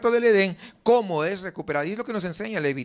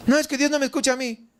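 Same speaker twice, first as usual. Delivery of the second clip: complaining believer; 5 semitones higher, faster than usual. Retold or imitated. Voicing a doubting believer's complaint.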